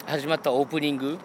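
tipsy, slurring a little. Real, not acted. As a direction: talk like you've had a few. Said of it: "ベロベロですよ、もう".

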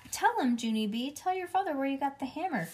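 high, insistent angry order; growling mother. A narrator's reading. Mother orders child to tell father, angrily. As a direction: press the child to confess. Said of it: "growled Mother".

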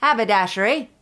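rough attempt at Cockney; almost Cockney accent. Host attempts the haberdasher's accent, shaky almost-Cockney. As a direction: try a Cockney accent, half failing. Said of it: "That was almost Cockney".

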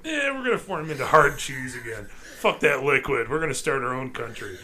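lightly voiced rebellious bacteria; cheese bacteria voice. Bacteria plotting to form hard cheese again, lightly voiced defiance. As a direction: play defiant little germs, lightly hammed-up. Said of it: "cheese bacteria that are like".

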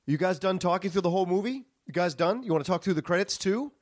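retold confrontation. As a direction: imitate an annoyed moviegoer calling people out. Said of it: "He was saying".

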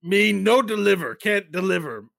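high goblin protest, loud then easing; high creature voice. Acted. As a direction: insist like a cornered little goblin. Goblin answers Brett.

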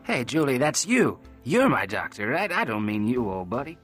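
play-acting sorry, lightly high; a touch of hammed-up remorse; mock contrition. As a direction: pretend to apologise, tongue in cheek. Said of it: "a play-acting look of contrition".

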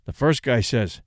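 ordinary delivery

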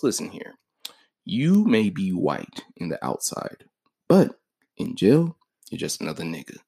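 a hint of a cold jailhouse warning; stern inmate. Black inmate sets Nazi straight.

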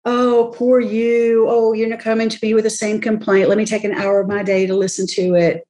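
a touch of sarcastic pity; mock squishy sympathy. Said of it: "it's not that squishy".

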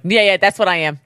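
too-easy agreement. Retold or imitated. Co-host mimicking how easily he claimed the label, mock eager agreement. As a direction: imitate someone agreeing far too readily. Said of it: "how easily you're like".

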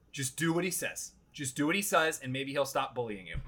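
soft, meek murmur to yourself; resigned self-talk. Retold or imitated. Golfer talking himself into obeying the bullying caddy, resigned. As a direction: drop the volume and give in.

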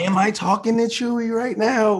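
high, loud comic confusion; mock bewilderment. Actor lost in secretive audition sides, mock bewildered.

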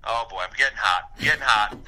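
winded from pacing; breathless, talking while walking; out of breath. Real, not acted. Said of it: "I'm out of breath".

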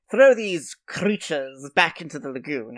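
slow, haughty, with rolled R's; slow lordly disdain, rolling the R in "creatures" and "lagoon"; supercilious. Retold or imitated. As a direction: look down your nose and trill the R in "creatures". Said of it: "he says very superciliously".

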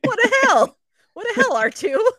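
loud, high indignant cry; outraged yell. Real, not acted.

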